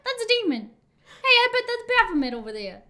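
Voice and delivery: high, loud, fast mock panic; mock alarmed. Friend joining in on a tangent, high mock panic. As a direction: squeal it like a jumpy crowd. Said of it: "mocking the crowd's reaction".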